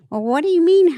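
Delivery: incredulous retort. Retold or imitated. Retells her reply to amazed people.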